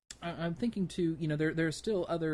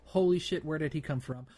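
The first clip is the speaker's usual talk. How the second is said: louder, higher startled exclamation; mock shock as a ship appears from nowhere; startled outburst; 3 semitones higher, 5 dB louder than usual. Player ambushed while parking at a space dock, startled. Acts out player caught by surprise.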